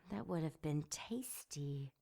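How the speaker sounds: breathy hungry whisper. A narrator's reading. Demon savoring her plan in a whisper. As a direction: whisper it like a tasty thought.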